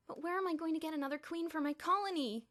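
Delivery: high whiny wail. A narrator's reading. Elmer wailing about his lost queen ant, high and plaintive. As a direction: moan it out in despair. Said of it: "he wailed".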